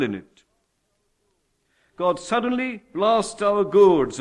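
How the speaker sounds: forceful, emphatic sermon delivery; preaching. Real, not acted. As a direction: preach it out, landing hard on key words.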